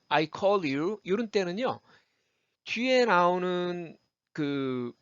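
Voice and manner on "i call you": "I call you" with the L carried into you; linked "call-lyou" in I call you. Shown as a demonstration. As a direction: run call into you, sounding the L. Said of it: "음가가 L 살아나는데요".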